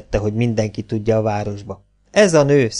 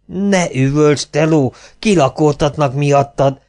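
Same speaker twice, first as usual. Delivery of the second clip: scolding voice; 3 semitones higher, 3 dB louder, slower than usual. Acted. Other character scolds, put-on voice.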